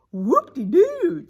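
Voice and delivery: high, slow gleeful cheer. A narrator's reading. Shifty cheers the snow plan, gleefully cheering. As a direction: whoop it with glee. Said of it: "cheered Shifty".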